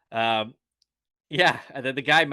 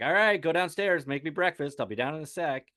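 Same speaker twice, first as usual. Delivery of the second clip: brushing him off; 7 semitones higher than usual. Retold or imitated. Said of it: "she's basically just like".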